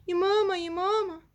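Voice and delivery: calling out. Acted. Child calling mother from afar.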